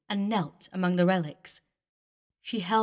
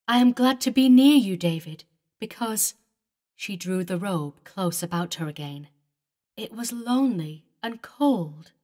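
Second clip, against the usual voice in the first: eager, louder; 5 dB louder than usual. Acted. Eleanor tells David her joy.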